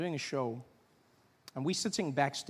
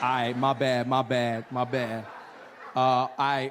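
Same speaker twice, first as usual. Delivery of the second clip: louder, sheepish apologies; loud embarrassed apology; 6 dB louder, slower than usual. Retold or imitated. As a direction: back off fast, embarrassed. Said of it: "He's like".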